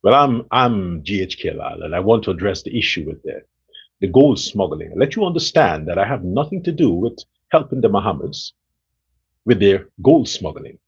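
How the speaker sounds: low raspy politician at a press conference; G H K Lal impression. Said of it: "with his press conference".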